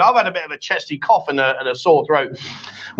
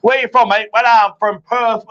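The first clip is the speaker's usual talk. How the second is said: higher, slowing attempt at Aussie that slips into Irish; botched Australian, Irish-sounding; 3 semitones higher, 3 dB louder than usual. Host acts out a Perth local, botched Irish-sounding Australian accent. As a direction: imitate an Australian and land nearer Irish. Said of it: "That's an Irish accent".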